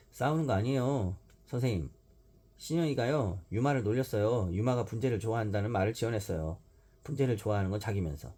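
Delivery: 높고 또랑또랑 일러바치는 아이; 선생님께 고자질하듯; tattling child. Acted. 아이가 선생님께 일러바침. (고자질하는 아이 목소리)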